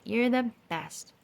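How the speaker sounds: put-on high, slow sweet child. A narrator's reading. Child comforts Pluto.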